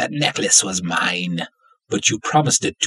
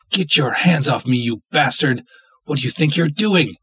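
angry shout; 5 semitones higher than usual. Acted. Captive woman shouting at the man grabbing her, angry. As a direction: fend him off with your voice.

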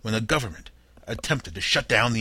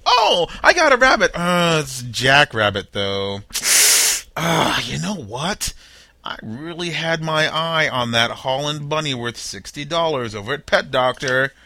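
scheming thief; 3 semitones higher, 3 dB louder than usual. Pretend. Host voicing the bunny thief, hammed up and gleeful. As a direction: play a cartoonish crook getting an idea.

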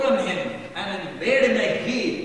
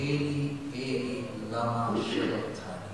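anguished cry; 11 semitones lower, 12 dB quieter than usual. Acted. Jesus's cry from the cross.

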